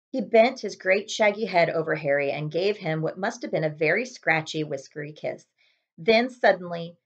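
ordinary delivery

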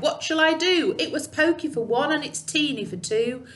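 lightly voiced old lady fretting; mild fuss from a cramped old lady; fretful old lady. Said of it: "The little old lady cried".

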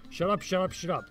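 exasperated shout; annoyed. Real, not acted. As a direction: snap back at the email. Annoyed retort to the email.

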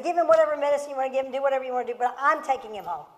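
fast, defiant insistence to the doctor; righteous indignation. Retold or imitated. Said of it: "Righteous indignation".

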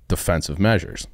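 "measures" lifted slightly, as if in air quotes; air-quoted defensive measures. Shown as a demonstration. Host mocking the label on permitted weapons, ironic stress. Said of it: "quote unquote".

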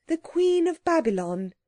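high-pitched, deliberate naming; careful. A narrator's reading. Anthea naming the ring's giver, carefully. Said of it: "said Anthea carefully".

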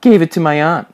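high, loud mocking echo; mocking mimicry. A narrator's reading. Major mimics Alfred's excuse, mocking mimicry. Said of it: "mimicked Major".

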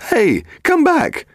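very high, drawn-out call; shouting after someone. A narrator's reading. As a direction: call out slowly to someone getting away. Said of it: "she spun round and shouted again".

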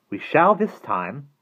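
high, slow sinister lightness; lighter voice. A narrator's reading. Withers surprises the children from behind, light-voiced. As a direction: draw it out in a light voice. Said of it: "a lighter voice said behind them".

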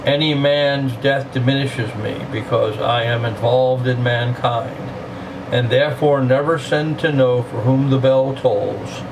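slow, measured poetry recital; poem reading. Acted. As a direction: read it slowly, letting each line land. Reads the Donne poem aloud.

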